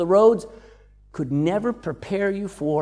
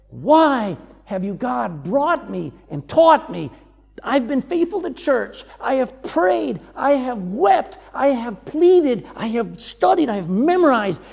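pleading lament; 4 semitones higher than usual. Retold or imitated. Student's anguished prayer voiced.

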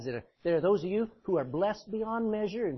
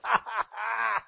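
devil's laugh; 4 semitones higher than usual. Acted. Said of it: "The devil's laughed".

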